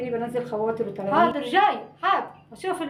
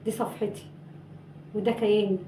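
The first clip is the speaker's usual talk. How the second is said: hurt monologue; 2 semitones lower, 4 dB quieter than usual. Acted. Miro's wounded monologue to Saadia.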